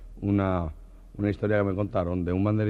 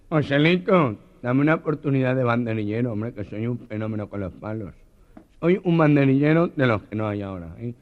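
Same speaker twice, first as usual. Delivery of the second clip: boastful banderillero; 3 semitones higher, 5 dB louder than usual. Retold or imitated. The Meloja begging Joselito, boastful and loud. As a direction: brag your way into the job.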